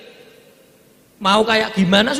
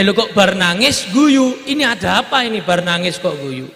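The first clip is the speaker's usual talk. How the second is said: puzzled question; 2 semitones lower, 4 dB louder than usual. Acted. Aisyah wondering why Fatimah cries then laughs, puzzled. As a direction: ask in disbelief why she smiles.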